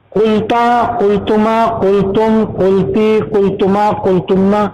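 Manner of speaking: rhythmic grammar drill, settling on the last form; conjugation recitation. Shown as a demonstration. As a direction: run evenly through the Arabic verb forms. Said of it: "اب ادا کروں گا".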